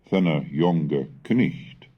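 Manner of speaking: put-on slow "Thenna jonge knecht" with old sounds, each word spelled out in voice; Middle English pronunciation. Shown as a demonstration. Lecturer quoting line five for students, slow careful example. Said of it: "like the one in line five".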